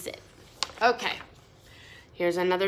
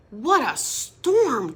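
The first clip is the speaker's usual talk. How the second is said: twittering wren; 3 semitones higher, 5 dB louder, slower than usual. Acted. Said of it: "twitters Wren".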